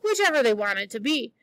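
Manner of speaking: reading a novel aloud to the class; story reading. A narrator's reading. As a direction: tell the story lively, voicing the characters. Teacher reads novel to class.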